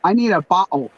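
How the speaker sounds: "bottle" with a dropped t, like "bah-ul"; Long Island bottle. Retold or imitated. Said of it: "how she said the word bottle".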